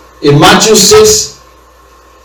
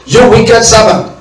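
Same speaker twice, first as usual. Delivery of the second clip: stern rebuke; 4 semitones higher than usual. Retold or imitated. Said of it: "said unto him".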